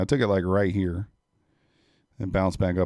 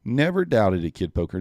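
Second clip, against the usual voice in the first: excited cheer; 4 dB louder than usual. Real, not acted. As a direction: cheer it out like you knew all along. Cheering a trader's winning trade.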